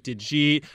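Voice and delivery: DID YOU EAT run together as "didjeet"; spaces left out. Shown as a demonstration. Giving examples from the video, DID YOU EAT without spaces. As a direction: blend DID YOU EAT into one word. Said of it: "do I leave out the spaces in words".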